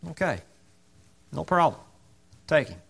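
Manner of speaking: mildly submissive acceptance; quiet humble okay. Retold or imitated. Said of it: "very humbly and very submissively".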